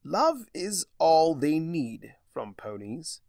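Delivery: Discord voice. Acted. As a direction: savour each word like a smug trickster. Discord speaks, narrator voices him.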